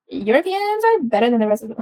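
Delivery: a clumsy put-on European accent; bad European accent. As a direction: try a European accent and botch it. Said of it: "that was a bad accent".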